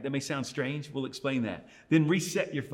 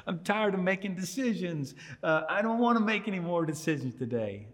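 higher, whiny, with a laugh in it; a half-laughing, higher-pitched moan of someone sick of deciding; exasperated tired whine; 5 semitones higher than usual. Retold or imitated. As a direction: play your worn-out self at dinner time, fed up. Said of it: "I'm just frustrated over simple decisions".

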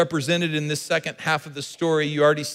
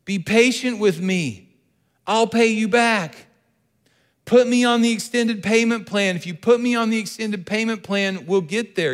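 begging; 5 semitones higher than usual. Acted. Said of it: "fell to his knees and begged him".

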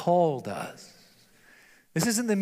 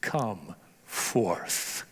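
solemn call; 7 semitones lower than usual. Retold or imitated. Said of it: "he simply calls out".

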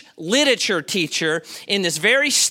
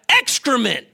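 mildly raised mock outburst; retold yell; 5 semitones higher, 4 dB louder than usual. Professor interrupting the student's reading, retold yell. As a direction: yell it out as the teacher, held short of full volume. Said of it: "he yells out".

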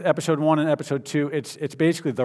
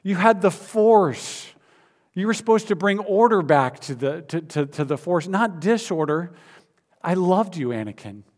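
grieving plea; 4 semitones higher than usual. Acted. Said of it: "He says".

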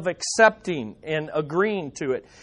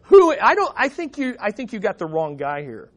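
Moses refusing; 2 semitones higher than usual. Retold or imitated. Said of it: "I think what he's saying is".

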